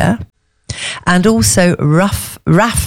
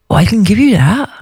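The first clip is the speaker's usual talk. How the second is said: put-on a shaky Kent accent that slips into Welsh; attempted Kent accent; 3 semitones higher than usual. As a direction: try the farmer's wife in Kent and land in Wales. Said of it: "in a Kent accent".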